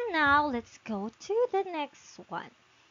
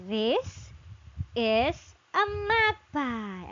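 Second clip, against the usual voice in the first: slow model sentence; slower than usual. Shown as a demonstration. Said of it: "so you can say".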